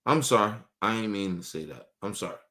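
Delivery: low, soft, sheepish sorry; meek apology. Retold or imitated. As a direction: apologize meekly to elders. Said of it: "I always gotta apologize".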